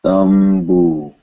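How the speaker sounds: "Thumbu" with an M before the bu; clear M sound. Shown as a demonstration. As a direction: close the lips for the m in "Thumbu". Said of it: "This is a M sound".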